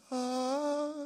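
mock trance sound. Mimes what people think happens.

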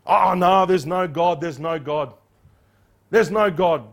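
loud mock insistence, there's no God; mocking an atheist. Preacher mimicking a skeptic, mock insistent denial. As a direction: scoff like the skeptic would. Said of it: "this man yesterday".

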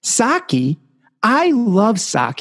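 put-on high, delighted old man voice; little old man. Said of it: "the little old man goes".

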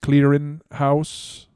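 put-on slow, drawn-out Jamaican accent. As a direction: stretch the words in a Jamaican accent. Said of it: "talks like, a Jamaican accent".

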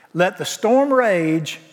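slow, drawn-out declaration; slow and defiant. Real, not acted. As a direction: lean into each word. Preacher slows for emphasis.

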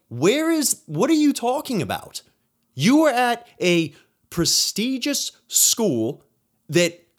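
replaying how he pushed back in disbelief; retold incredulous challenge. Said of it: "and I'm like".

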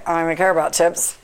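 slurred, lazy words; slurring voice. Retold or imitated. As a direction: slur it like half asleep. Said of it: "in a slurring voice".

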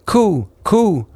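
high, cooing like a wood pigeon; a pigeon's high coo. A narrator's reading. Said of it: "Then the wood pigeon said".

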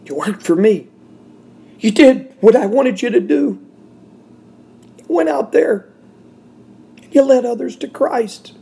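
God's voice, retold. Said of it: "God reminded me".

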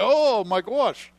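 loud, high, drawn-out Aussie cry; hammed-up Australian dismay; mock Australian exclamation. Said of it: "And he's like".

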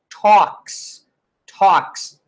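talks said tawks, no L sound; silent L in talks. Shown as a demonstration. Teacher showing the silent L in talks. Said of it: "O L sai fora".

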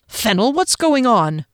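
a firm demand; captain demanding an answer. Acted. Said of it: "Derry demanded".

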